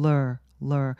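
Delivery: lur said as one short blended sound. Shown as a demonstration. Teacher showing the second syllable of roller. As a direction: say lur with no vowel between. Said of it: "거의 요런 식으로요".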